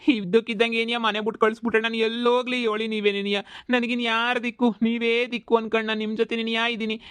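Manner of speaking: hammed-up begging to the master; milk the pity, beg not to be sent away; overacted pleading. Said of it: "ಶಾನೆ over acting ಮಾಡಿದ್ರೆ".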